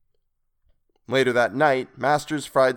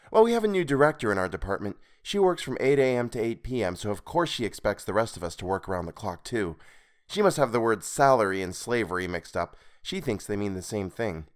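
woman's voice. Acted. Meg's voice in dialogue.

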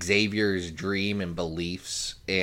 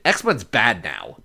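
dismissive; slower than usual. Retold or imitated. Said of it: "that's when he said".

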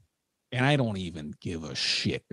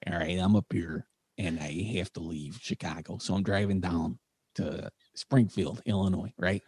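Jack Phillips impression; 4 semitones lower than usual. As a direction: play the old state trooper, low and hushed. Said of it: "what you look like when you do Jack Phillips".

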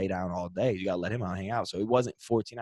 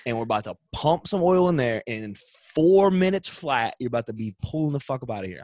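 brusque mechanic; 3 semitones higher, 5 dB louder than usual. Retold or imitated. Oil change guy brushing him off.

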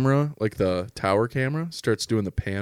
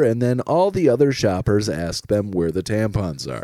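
louder announcer sponsor read; 3 dB louder than usual. Acted. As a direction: pitch it like a radio promo.

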